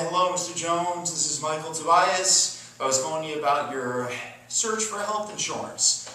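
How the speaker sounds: mock the mundane phone rep with ums and uhs; lightly imitated bored insurance agent reading a script; boring generic salesperson. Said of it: "That's how they all sound. It's boring".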